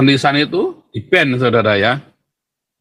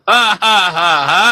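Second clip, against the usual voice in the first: evil laugh; 4 semitones higher than usual. Pretend. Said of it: "tertawa jahat".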